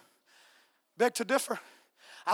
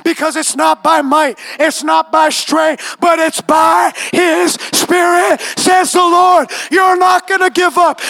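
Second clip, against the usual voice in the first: fiery preaching; 5 semitones higher, 16 dB louder than usual. Acted. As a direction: build the declaration to a roaring climax. Preaching at full force.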